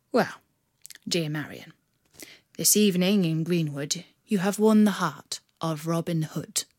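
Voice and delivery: a hero unmasking with a smile in the voice; gallant reveal. Acted. Robber reveals himself.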